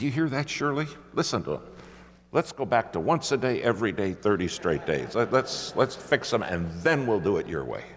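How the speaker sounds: husband protests to his wife on the phone; agitated protest. Retold or imitated. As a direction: argue back with rising heat. Arguing with wife, retold.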